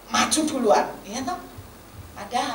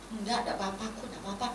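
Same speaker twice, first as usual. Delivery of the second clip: quiet, evasive brush-off; downplayed denial; 7 dB quieter, much faster than usual. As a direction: imitate someone softly dodging a question. Embarrassed employee denies crying.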